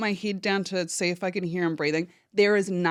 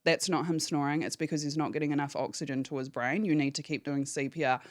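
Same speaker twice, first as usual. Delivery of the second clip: softer, steady, reassuring operator; calmest voice; 3 semitones lower, 5 dB quieter than usual. Retold or imitated. The phone operator correcting Tegan, quiet and calm. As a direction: settle her down gently but firmly. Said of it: "in the calmest voice".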